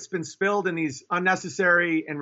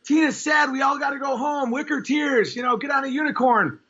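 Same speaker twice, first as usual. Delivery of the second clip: higher, sing-song mock girly chorus; mock gushing girlfriends; 7 semitones higher than usual. Comic mimicking the girls comforting sad Tina, higher and mocking. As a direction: lampoon the girls rallying round. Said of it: "All the other girls are like".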